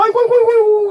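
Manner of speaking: high, loud hammed-up wailing cry; mock wailing. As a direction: wail it out in exaggerated mock grief. (과장된 흉내 곡소리)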